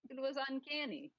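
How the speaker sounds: light mock Russian accent, articles dropped; a hint of a Russian commentator; mild Russian accent, deadpan. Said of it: "your Russian accent".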